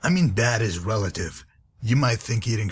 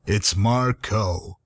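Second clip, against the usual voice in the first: slow, with "Marco" split in two; patient correction; much slower than usual. Acted. Correcting the dim companion, slow and patient. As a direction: drag out "Marco" syllable by syllable. Correcting the misheard name again.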